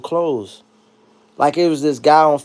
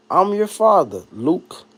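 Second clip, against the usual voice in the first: Vader quote; slower than usual. Retold or imitated. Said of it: "Darth Vader".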